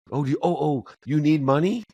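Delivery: high, flustered offer of help; a mother rushing to help; fussing mom. Retold or imitated. Mother offering her son money, high and flustered.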